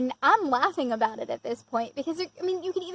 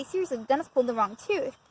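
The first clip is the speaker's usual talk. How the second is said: insistent repeat. Retold or imitated. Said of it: "No, really".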